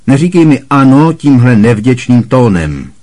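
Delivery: growling aunt. A narrator's reading. Aunt Marge scolding Harry, angry growl. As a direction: snarl it at the ungrateful boy. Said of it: "zavrčela teta March".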